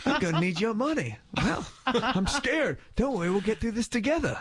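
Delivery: high-pitched attempt at British or Irish accent; badly faked Irish lilt, playful. Host acting out a pleasant mugging, badly faked Irish accent. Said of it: "British and Irish, where if someone".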